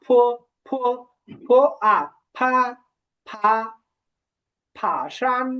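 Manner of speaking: ফো with an aspirated P, then blended into ফা; Chinese P sound. Shown as a demonstration. Teacher drills students step by step, aspirated P in ফো and ফা. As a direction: build from ফো and আ to ফা, then ফা শান. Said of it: "আমরা পি এর উচ্চারণ শিখেছিলাম না".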